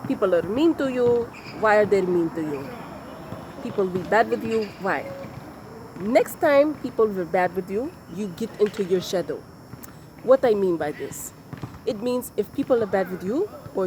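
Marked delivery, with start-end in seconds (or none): 0.1-9.4 put-on a light, amateur Russian-turned-English accent; a hint of a Russian accent slipping into English; terrible Russian accent. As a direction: play the Bulgarian teacher in a shaky Russian accent, not quite landing it. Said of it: "I'm going to try to say it in her accent".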